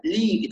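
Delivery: "لي" as a pure "lii"; complete kasra. Shown as a demonstration. Teacher corrects the vowel, لي with a complete i. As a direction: finish "لي" on a true i, never e. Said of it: "إتمام الكسرة".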